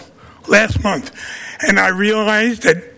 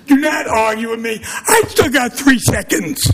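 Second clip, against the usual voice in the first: real heated protest; indignant; 2 semitones higher than usual. Real, not acted. Resident claiming remaining time from mayor, indignant. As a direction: stand your ground, cutting off the argument.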